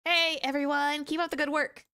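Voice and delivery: cheery calling out. Acted. Visitor greeting investigators, high cheerful call. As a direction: call out brightly to the whole crew.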